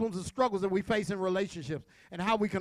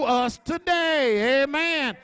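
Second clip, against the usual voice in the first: raised pitch, driving sermon delivery; fervent preaching; 5 semitones higher, 4 dB louder than usual. Real, not acted. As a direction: preach it out to the congregation, stretching key words.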